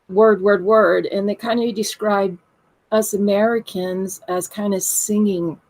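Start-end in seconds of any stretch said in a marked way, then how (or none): 0.1-1.0 each word separate and distinct; clear, word by word. Shown as a demonstration. Demonstrating how British friends talked, clear and word by word. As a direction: say each word cleanly on its own. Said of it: "it's very clear, like".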